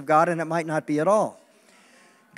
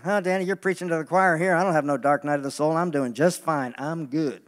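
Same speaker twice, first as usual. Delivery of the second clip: imitating smug congregant; 2 semitones lower than usual. Preacher mimicking a congregant who feels fine. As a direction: play the complacent listener, easing off. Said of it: "some of you right now are saying".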